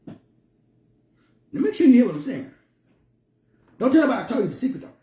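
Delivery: confiding a secret, drawing them close; conspiratorial. Shown as a demonstration. To listeners leaning closer, a confiding secret tone. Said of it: "Lean forward".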